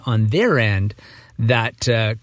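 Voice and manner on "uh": groggy morning voice. Real, not acted. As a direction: voice still rough from sleep. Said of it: "I think this is my morning voice".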